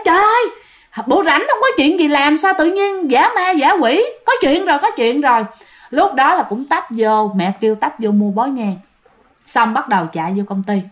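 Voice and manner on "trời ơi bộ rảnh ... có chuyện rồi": a worried mother scolding the kids for playing at ghosts. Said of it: "mẹ bạn la nói".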